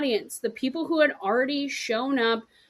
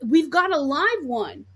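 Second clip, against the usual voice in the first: excited; 4 semitones higher, 5 dB louder than usual. Retold or imitated. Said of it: "And you're excited".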